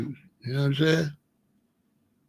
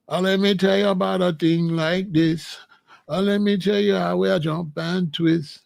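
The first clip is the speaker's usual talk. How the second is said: lilting Jamaican reggae DJ chat; Jamaican deejay toasting; 2 semitones higher than usual. Retold or imitated. Recalling his radio DJ spots for listeners, Jamaican toasting. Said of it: "I would D J on there".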